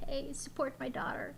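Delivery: whispered mom's plea; whispering. Retold or imitated. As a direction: whisper it like a proud mom. Mom's request retold.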